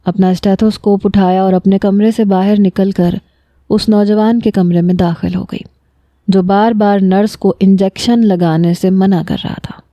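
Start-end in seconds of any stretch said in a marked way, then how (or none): none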